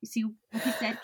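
conspiratorial whisper; hushed aside to Katie. Real, not acted.

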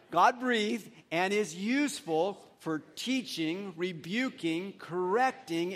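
slow, deliberate scripture recitation; recited with feeling. Real, not acted. Pastor leading the church in a memory verse, recited with feeling. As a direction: lead a group through the verse, phrase by phrase. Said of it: "We're gonna say it with feeling".

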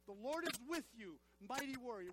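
emphatic, full-voiced declaration; like you mean it. Shown as a demonstration. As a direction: declare it with conviction to rouse the congregation. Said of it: "say it like you mean it".

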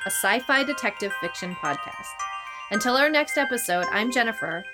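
polished, scripted host's closing read; podcast sign-off. Acted. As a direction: sign off to the listeners over the theme. Scripted outro over music.

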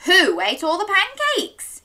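mock dad yell; a hint of a cross dad calling out; lightly voiced dad yelling. A narrator's reading. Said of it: "yelled Dad".

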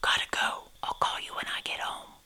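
hurried goodbye in a soft whisper. A narrator's reading. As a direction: whisper so nobody else hears. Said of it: "I whispered".

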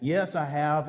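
light imitation British accent; lightly mimicked English coach's accent. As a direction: quote him with a touch of British. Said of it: "He said in that British accent".

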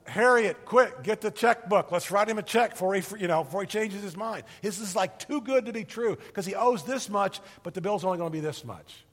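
gleeful shout to Harriet; excited debtor. Acted. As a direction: blurt it out like you can't believe your luck. Debtor excitedly tells wife.

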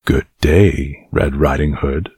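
low, hushed sly wolf; lightly voiced sly wolf. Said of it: "said the wolf".

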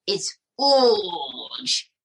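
lightly French, boasting; a hint of a French charmer; French puppet voice. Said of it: "I do not say the H".

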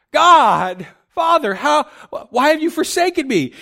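pleading question. Retold or imitated. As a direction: question God in mild, retold bewilderment. Preacher voices Jesus's anguished question.

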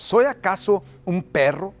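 slow, mildly scornful giant's challenge; mock roar, lightly acted Goliath; understated roar of a challenger. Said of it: "le rugió a David".

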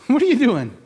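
a high, loud laughing repeat of God's question. Retold or imitated.

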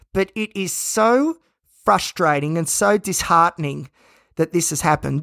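speaking through gritted teeth. Real, not acted. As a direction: jaw clenched tight while talking. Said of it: "talking through gritted teeth".

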